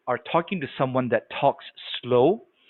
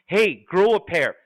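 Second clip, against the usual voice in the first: pitched-up, forceful telling-off; mock-impatient loud talker; loud, blunt talker; 3 semitones higher than usual. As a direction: challenge them bluntly, hitting HEY hard. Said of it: "someone that talks really loud".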